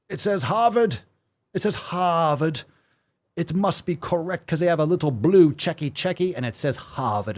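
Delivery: sarcastic mock reverence. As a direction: gush sarcastically over the credentials. Sarcastic mocking Harvard authority.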